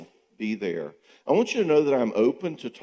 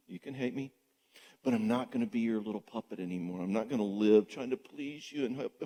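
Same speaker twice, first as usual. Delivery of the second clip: much softer, steady and unbothered; quiet calm refusal; 8 dB quieter than usual. Retold or imitated. Speaker answering a shamer, much softer and calm. Calmly refusing to be held hostage.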